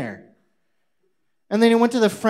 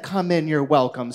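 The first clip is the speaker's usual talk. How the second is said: flat, lower, pointed echo of the host's welcome; dry mock quote; 5 semitones lower than usual. The speaker mimicking the host's welcome, flat and pointed. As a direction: throw his own words back at him.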